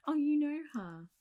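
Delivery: loud, high burst of surprise; pleasantly surprised. Acted. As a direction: exclaim in delighted surprise. Patient knows Nurse Trisha.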